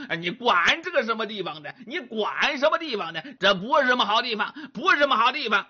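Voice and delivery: fast, stammering, irritated protest; flustered young man. Acted. Grabbed young man protests to Monkey, fast flustered stammer. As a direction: shake him off in a rush of words.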